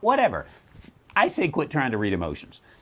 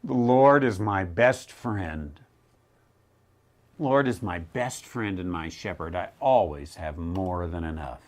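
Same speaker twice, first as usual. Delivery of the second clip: syrupy sentimental reading; 5 semitones lower than usual. Shown as a demonstration. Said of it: "Just reading the first few lines".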